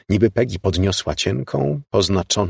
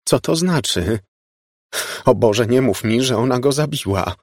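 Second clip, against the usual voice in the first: alarmed, raised pitch; mounting dread in a higher voice; horrified; 5 semitones higher than usual. A narrator's reading. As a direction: plead against dreadful news. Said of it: "otworzyła szeroko oczy z przerażenia".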